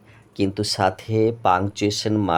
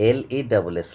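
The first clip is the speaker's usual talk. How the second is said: spelling out; 2 semitones higher, much faster than usual. Shown as a demonstration. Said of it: "তারপর লেস".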